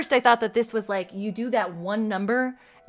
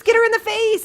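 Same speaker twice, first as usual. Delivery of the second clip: higher still, louder shout on "her"; cheering louder; 11 semitones higher, 7 dB louder, faster than usual. Real, not acted. Gamer yelling louder at the fight. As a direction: yell it harder.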